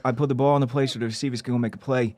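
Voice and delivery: put-on New England accent. Player at a press conference, mild New England accent. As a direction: answer like a New England athlete. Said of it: "my voice is like a New England".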